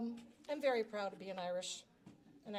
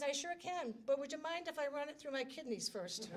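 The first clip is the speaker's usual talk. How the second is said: chuckling punchline; 3 semitones higher than usual. Retold or imitated. Punchline of a retold joke.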